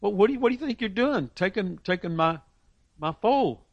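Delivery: high, fast indignant question; a hint of an indignant owner. Owner challenges disciples over foal.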